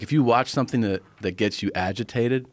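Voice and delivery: ordinary talk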